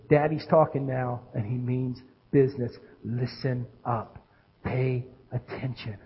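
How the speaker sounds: low, soft, deliberate command; stern daddy voice. Shown as a demonstration. Dad getting his kids' attention, quietly firm. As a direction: drop it low and quiet, meaning business. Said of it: "a certain tone of voice I use".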